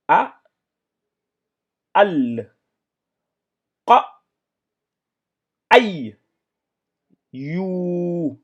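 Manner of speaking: loud, careful reading of each syllable; blended reading. Shown as a demonstration. Teacher models the recitation for pupils, loud and careful. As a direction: read the syllables aloud for the class.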